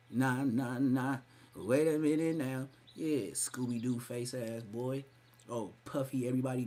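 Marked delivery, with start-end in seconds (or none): 0.1-2.7 mock intro. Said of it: "that's him".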